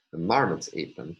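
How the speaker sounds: marmots carries the main stress, "ate them" trailing; contrastive stress on marmots. Shown as a demonstration. Lecturer repeats example sentence, main stress on marmots. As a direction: put the weight on marmots. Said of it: "the primary phrasal stress".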